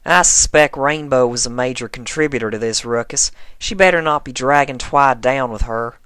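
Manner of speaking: exasperated, half amused. Acted. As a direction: Applejack grumbling about Rainbow and Twilight. Applejack voiced grumbling.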